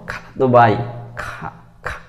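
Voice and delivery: খা with a strong aspirated kh; খালাতো with airy kh; demo kha sound. Shown as a demonstration. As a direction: stress the breathy খা. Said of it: "এরকম".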